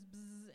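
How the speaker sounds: vocal buzzing noise; imitated clipper buzz.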